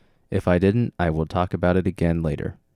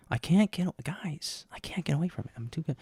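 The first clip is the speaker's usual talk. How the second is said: mock whisper; 10 semitones higher, 7 dB quieter than usual. Mock secret confession.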